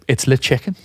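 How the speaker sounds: straight-faced, matter-of-fact insistence; deadpan. Retold or imitated. Teller insisting to coworker on fake French, deadpan. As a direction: say the nonsense with total conviction. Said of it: "with a completely straight face".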